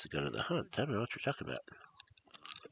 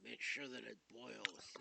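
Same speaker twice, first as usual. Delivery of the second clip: much softer and slow; soft slow echo; 4 semitones higher, 17 dB quieter, slower than usual. Acted. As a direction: say it again softly and slowly. Same words, soft and slow.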